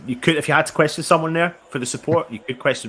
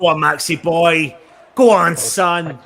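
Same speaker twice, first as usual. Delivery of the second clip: cheering; 2 semitones higher, 7 dB louder, slower than usual. Real, not acted. Cheering on a substitute.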